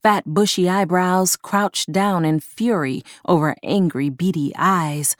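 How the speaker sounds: usual speaking voice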